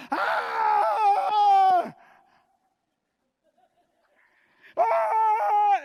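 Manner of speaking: berro agudo e prolongado, de deboche; grito exagerado. Retold or imitated. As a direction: imitar quem grita para ser visto. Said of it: "grita e olha do lado". (grito escandaloso, de imitação)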